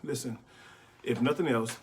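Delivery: winded from running upstairs; out of breath. Real, not acted. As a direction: speak while catching your breath. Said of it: "I'm out of breath".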